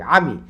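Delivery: আমি short, with no stretch on আ; quick syllables. Shown as a demonstration. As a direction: say both beats of আমি briskly. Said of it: "তাড়াতাড়ি".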